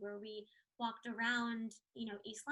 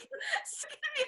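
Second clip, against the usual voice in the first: nervous laugh; 4 dB louder, slower than usual. Retold or imitated. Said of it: "But I was like".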